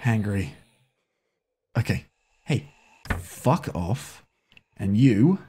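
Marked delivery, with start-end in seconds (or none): none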